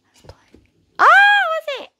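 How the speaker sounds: high, excited whisper; hushed but thrilled. Real, not acted. Owner watching the dog react to the screen, excited high whisper.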